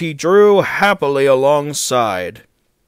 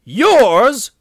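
high, loud incredulous question; astonished yelp of a single word; exclaiming; 11 semitones higher, 8 dB louder than usual. A narrator's reading. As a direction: blurt it in disbelief. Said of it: "exclaimed Henry".

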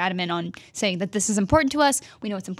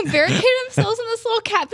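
ordinary talk

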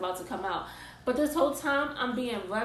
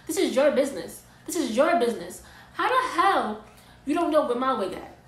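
loud, high, furious telling-off; angry rant; 3 semitones higher, 5 dB louder than usual. Real, not acted. Ranting at the stylist over the missing wig, loud and furious. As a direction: chew her out for losing the wig.

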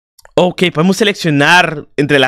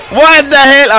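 loud, high startled shout; grito de sobresalto; 9 semitones higher, 5 dB louder, slower than usual. Real, not acted. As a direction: blurt it out in shock, high and loud. Sobresalto por un jumpscare del juego. (grito agudo de susto)

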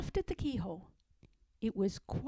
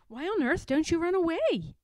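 a touch of horror, slightly raised; mildly shocked cry; horrified exclaim; 6 semitones higher, 4 dB louder than usual. Acted. Pigling exclaims at Pigwig, mildly horrified. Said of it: "exclaimed the horrified Pigling".

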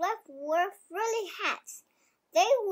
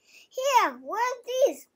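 higher, louder little goat voice; child's light goat voice; goat bleat; 5 semitones higher, 3 dB louder, slower than usual. Acted. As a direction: pipe it up like a small goat. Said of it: "bleated the middle-sized frilly goat Fluff".

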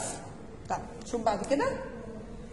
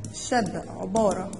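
slow repeated; 5 semitones lower, slower than usual. Shown as a demonstration. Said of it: "طب الشدة دي عبارة عن إيه؟".

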